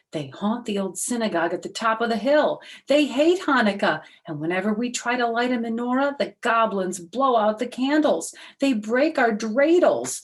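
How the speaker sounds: high, loud, worked-up villager; upset villager. Acted. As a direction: pour out the village's misery. Villager complains about goblins.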